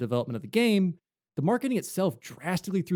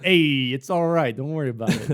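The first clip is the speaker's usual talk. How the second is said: soothing Goodman; 5 dB louder than usual. Retold or imitated. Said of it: "he's got Goodman going".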